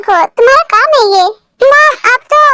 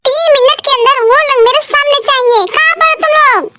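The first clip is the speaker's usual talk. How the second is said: sharp scolding mother-in-law, higher and rising; angry demand; 4 semitones higher than usual. Acted. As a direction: demand the three sons appear now. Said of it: "तुम इतने गुस्से में क्यों हो?". (गुस्से में बुलाती सास)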